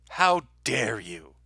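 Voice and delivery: very slow scolding, drawn out; scolding machine. Pretend. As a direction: drag out the machine's reproach. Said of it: "it's gonna scream".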